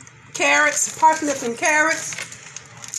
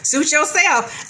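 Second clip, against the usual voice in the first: dismissive laugh; 3 semitones higher, slower than usual. Retold or imitated. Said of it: "covid dismissing her".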